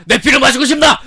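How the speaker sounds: high, loud hammed-up vampire taunt; mocking a vampire shouting at the mother; creepy vampire voice. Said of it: "엄마한테 소리를 지르고 피를 마시고 싶냐".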